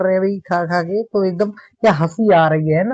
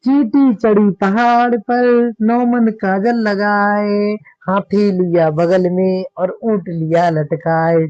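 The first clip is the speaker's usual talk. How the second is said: slow, drawn-out playful verse; poem recitation; slower than usual. Acted. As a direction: recite the funny couplet very slowly. Teacher recites comic verse. (धीमा हास्य काव्य पाठ)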